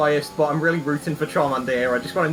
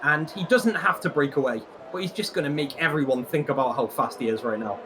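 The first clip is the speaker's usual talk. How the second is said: motorsport commentator. Acted. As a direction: call the overtake as it happens. Live race commentary.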